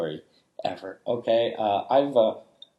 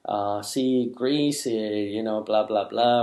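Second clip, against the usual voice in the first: carefree excitement. Retold or imitated. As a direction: brush it off, happy and clueless. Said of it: "I'm like".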